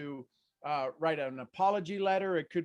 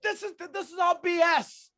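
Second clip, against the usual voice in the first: exasperated; 6 semitones higher, 5 dB louder than usual. Retold or imitated. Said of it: "I go".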